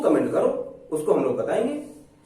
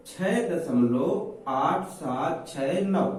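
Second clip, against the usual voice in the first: slow digit reading; 2 semitones lower, much slower than usual. Shown as a demonstration. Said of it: "एक एक अंक पढ़े जाते हैं".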